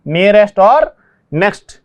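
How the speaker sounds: drawn out, word by word; slow contrast. Shown as a demonstration. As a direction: spell the pair out slowly. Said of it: "तो यहाँ पे देखिए nearest और next". (धीरे धीरे समझाते हुए)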